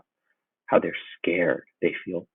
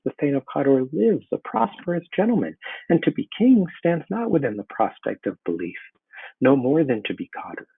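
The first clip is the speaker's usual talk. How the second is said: rising, pleading higher and higher to the witches; desperate demand; 3 semitones higher than usual. Acted. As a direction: Macbeth begs the witches to explain. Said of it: "He's desperate to have them explain".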